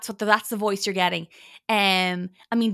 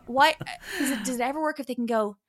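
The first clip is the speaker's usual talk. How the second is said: usual speaking voice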